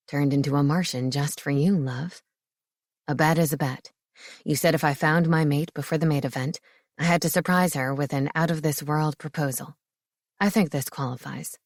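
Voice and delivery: a proud, grinning groom-to-be; Marcus, playful fiancé. A narrator's reading. Narrator voices Marcus.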